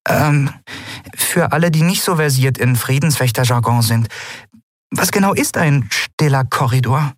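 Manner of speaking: high-pitched, sheepish character voice; embarrassed questioner. A narrator's reading. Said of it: "hatte die Hand gehoben und verlegen".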